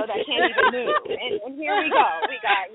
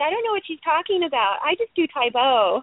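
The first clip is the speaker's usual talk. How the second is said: raised inflection; 3 semitones higher than usual. Acted. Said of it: "raise the inflection of my voice".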